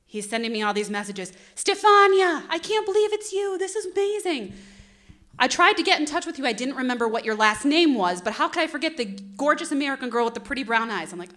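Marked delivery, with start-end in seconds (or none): 1.6-11.1 gushing. Retold or imitated. Voicing Moreno's gushing messages.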